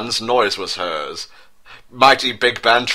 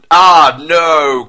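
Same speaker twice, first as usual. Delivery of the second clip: hammed-up cry of alarm, louder; mock cry; 6 semitones higher, 9 dB louder than usual. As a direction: shout it like a doomed guard. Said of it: "cried the guards".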